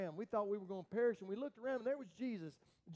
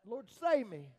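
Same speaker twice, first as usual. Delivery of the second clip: a sudden loud plea; crying out for help; 2 semitones higher, 9 dB louder, slower than usual. Retold or imitated. Peter sinking, crying out loudly to Jesus. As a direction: shout it like you're sinking. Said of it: "And you cried out".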